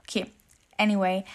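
ordinary talk, nothing marked

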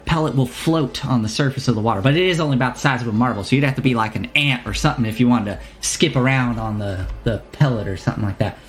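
put-on merchant in a wandering accent, improvising; lightly voiced shopkeeper. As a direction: ramble through the sales instructions, stopping and starting. Shopkeeper explains and warns.

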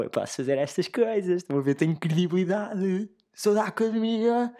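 mock smug scholar; pompous academic. Mocking self-important academic.

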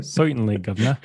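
put-on British cockney; hammy Brit politeness, a bit exaggerated; playful fake British; mock British accent. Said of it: "that was, uh, believable".

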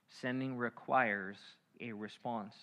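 Sending requires said slowly, spaced; preacher repeating the point slowly; slow, emphatic. Shown as a demonstration. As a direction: lean on requires, draw it out. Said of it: "repeated slowly".

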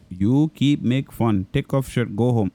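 lightly imitated Indian boss giving orders; a hint of caricature Indian accent, curt orders; mock Indian accent. Boss firing the clerk, lightly mocked Indian accent. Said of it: "I was mimicking my boss at seven eleven".

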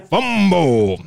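high, drawn-out announcer word with a laugh; Chris Berman. Acted. Host finishes the whooping bit, high laughing announcer impression. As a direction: stretch it out like a goofy highlight call. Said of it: "It is Chris Berman".

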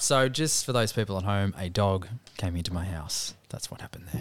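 hushed secret aside to the audience; whispering. Pretend. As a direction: lean in and whisper it. Joke aside to people at home.

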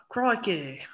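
drawn-out attempt at an Australian accent; hesitant, amateur Australian accent. Shown as a demonstration. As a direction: have a go at Australian, slowly. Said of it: "give me your Australian accent".

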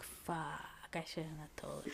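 hushed whisper of regret; whispered inner thought, very soft. Retold or imitated. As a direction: breathe it out as a guilty secret.

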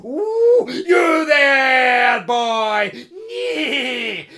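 loud, high hail from horseback; farmer's cry. A narrator's reading. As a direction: rein in and shout at the boy. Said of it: "cried the rich farmer".

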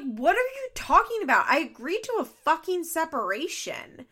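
high, loud outraged retort as Kate; mock outraged quote. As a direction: throw it back at him, indignant and loud. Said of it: "And she's like".

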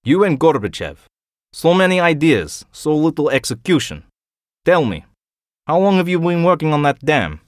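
cutting, proud Russian colonel; Ivanov's voice. Acted. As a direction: sneer at his failures. Ivanov's voice, raised pitch.

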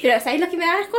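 hushed conspiratorial whisper; ASMR whisper. Shown as a demonstration. Still whispering to her friend about ASMR. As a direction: keep whispering the question. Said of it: "hablan así".

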